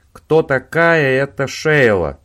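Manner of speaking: loud, slow, insistent question; pressing hard. A narrator's reading. Owen pressing Robin about Sheila, loud and slow. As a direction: bear down on him. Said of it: "налегал Оуэн".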